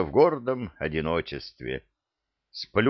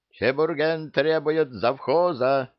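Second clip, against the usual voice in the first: proclaiming; 8 semitones higher than usual. Acted. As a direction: proclaim it across the riders. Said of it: "провозгласил".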